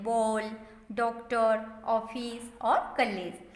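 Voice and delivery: बॉल, डॉक्टर, ऑफिस, कॉलेज read slowly with an open ओ; teacher shows how to read the ऑ sign; careful reading. Shown as a demonstration. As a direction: read each English loanword slowly with a rounded open ओ. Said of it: "ओ की तरह पढ़ते हैं".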